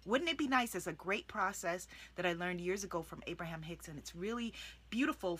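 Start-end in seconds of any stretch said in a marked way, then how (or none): 0.0-0.7 soft wishful. Shown as a demonstration. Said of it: "soften the vibration".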